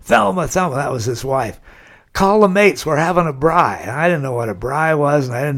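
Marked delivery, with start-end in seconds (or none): 0.0-0.8 louder, higher mock call to his wife; husband hollering from the van to his wife; yelling out the window. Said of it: "he's yelling out the window". 2.1-3.8 husband hollering from the van to his wife; yelling out the window. Retold or imitated. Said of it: "he's yelling out the window".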